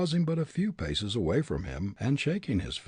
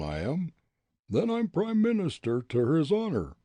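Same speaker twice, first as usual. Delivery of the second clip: blustering ruffian; 8 semitones higher than usual. Acted. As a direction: bluster like a brawler itching for a fight. Bully boasts and threatens.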